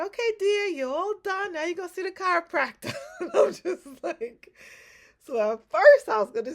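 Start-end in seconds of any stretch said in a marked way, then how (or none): 0.1-2.9 much higher, louder sing-song nurse voice; sweet therapist voice. Retold or imitated. Voicing the therapist's instruction. 3.1-4.5 laughing. Real, not acted. Laughs at her own dread.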